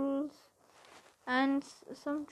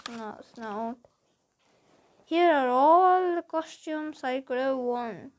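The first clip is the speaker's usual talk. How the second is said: usual speaking voice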